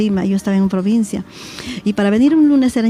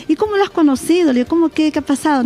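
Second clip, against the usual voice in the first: higher, startled questioning; retold alarmed questions; 6 semitones higher than usual. Mother asking her daughter how she met him, alarmed. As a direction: fire off worried questions at your daughter.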